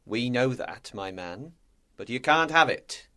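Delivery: softly spoken, composed captain; calm captain. A narrator's reading. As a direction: answer quietly and unruffled, as a calm captain. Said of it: "The captain smoked his pipe calmly".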